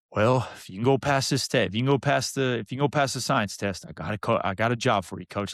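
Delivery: lightly imitated country-boy coach; a hint of a good old country coach; Coach Vincent. Coach offers a job on condition, lightly imitated country voice. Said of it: "good old country boy from Vernon".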